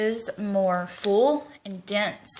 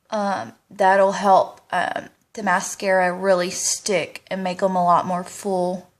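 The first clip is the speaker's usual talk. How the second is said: mouth propped open; 4 dB louder than usual. Real, not acted. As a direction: mouth held open for mascara. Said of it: "I have the most god-awful mascara face".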